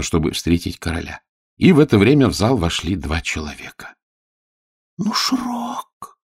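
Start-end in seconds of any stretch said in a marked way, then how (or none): 5.0-6.2 high, softer, hushed gasp of fear; horrified whisper. Acted. Elo sees the minister enter and whispers in fright. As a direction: breathe out the name in terror. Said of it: "с ужасом шепнула Ело".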